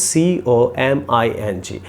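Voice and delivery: slow, evenly spelt "সি ও এম আই এন জি"; correct spelling demo. Shown as a demonstration. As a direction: spell "সি ও এম আই এন জি" slowly, letter by letter. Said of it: "তাহলে বানানটা কী হবে". ("সি ও এম আই এন জি" ধীরে, এক এক অক্ষরে)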